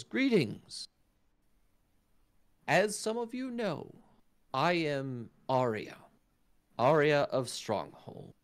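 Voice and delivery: high, slow, stately elven announcer; elf herald. Acted. Elf host welcoming the teams, high and stately. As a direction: address the arena like a regal elf.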